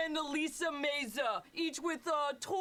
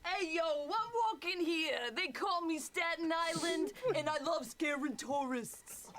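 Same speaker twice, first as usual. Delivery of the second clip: put-on New York accent. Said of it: "are they, like, New York or Jersey".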